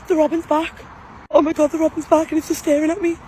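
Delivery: gasp, then hushed amazement; awed gasp. Real, not acted. Seeing the robin return at the grave, hushed awe. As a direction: caught off guard in wonder.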